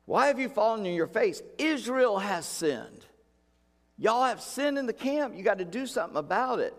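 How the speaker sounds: high stern rebuke; stern God. Acted. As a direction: scold Joshua, not nice at all. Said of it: "not quite that nice".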